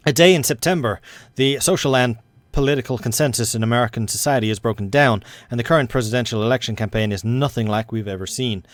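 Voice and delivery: put-on American accent that starts to slip; slipping American accent. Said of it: "I am completely losing the accent".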